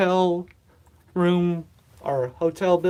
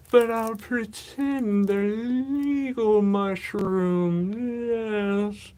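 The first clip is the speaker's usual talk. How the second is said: mustache twirling villain; much slower than usual. Pretend. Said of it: "once I start twirling the mustache".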